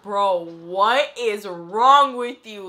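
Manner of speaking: put-on incredulous boyfriend. Zach finds her a mess.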